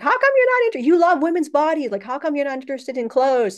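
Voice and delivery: high-pitched, loud teasing demand; excited quizzing. Retold or imitated. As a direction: squeal the question at him in disbelief. Quoting her own question to Ika.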